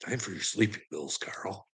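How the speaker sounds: soft, quiet mock nurse voice; lightly voiced nurse. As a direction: mimic the night staff gently. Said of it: "And they're like".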